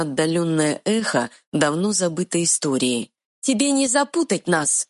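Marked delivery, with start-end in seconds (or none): 3.4-4.9 high, quick fairy voice; tiny fairy retort. Acted. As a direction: snap back like a tiny fairy. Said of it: "перебила тролля маленькая фея".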